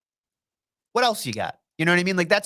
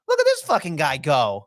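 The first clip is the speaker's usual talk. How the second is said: retold exclamation; 4 semitones lower than usual. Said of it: "and I'm like".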